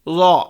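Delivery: लौ said heavy with little z sound; a thick लौ, not stretched or jerked; heavy Dwad. Shown as a demonstration. Teacher showing students the heavy लौ, without a buzz. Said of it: "लौ मोटा भी पढ़ेंगे".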